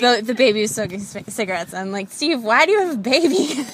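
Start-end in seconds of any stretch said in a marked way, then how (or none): 2.1-3.6 laughing question. Retold or imitated. Asking Steve in dream, laughing.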